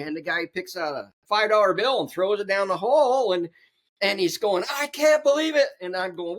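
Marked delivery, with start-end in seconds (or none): 4.7-5.7 high, louder disbelieving moan; mock dismay. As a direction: groan it like you lost your cash. Man laments dropped bill.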